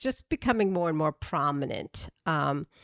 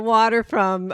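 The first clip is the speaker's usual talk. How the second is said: Boston accent; 4 semitones higher, 7 dB louder than usual. Real, not acted. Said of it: "your Massachusetts accent there".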